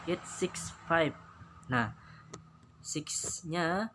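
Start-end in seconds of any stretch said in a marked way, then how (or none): 0.1-1.2 raised, careful model read. Shown as a demonstration. Teacher models the American example for pupils. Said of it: "American style bisa Anda lihat".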